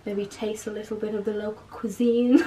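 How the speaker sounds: tour guide voice. Pretend. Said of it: "You sound like you're a tour guide".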